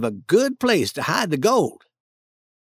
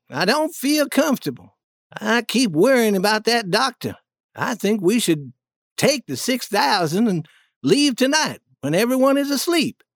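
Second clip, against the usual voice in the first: lightly voiced duke, higher pitch; a hint of an anxious schemer, pitched up; uneasy duke; 5 semitones higher than usual. Duke urging the king to leave tonight, mildly uneasy and higher.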